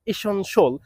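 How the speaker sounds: ইসনশল said i-SEN-shul, reduced vowels; correct pronunciation. Shown as a demonstration. Teacher modelling essential for learners. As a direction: model the short form. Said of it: "I can repeat the word".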